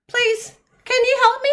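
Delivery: high pleading; pleading owl. A narrator's reading. Olive begs her friends, high pleading. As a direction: beg for help. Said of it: "said Olive".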